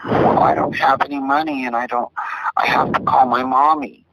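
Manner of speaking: hint of a child needing mommy; little kid's voice. Retelling a prank call to the operator, lightly voiced little kid. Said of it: "He could do a little kid's voice".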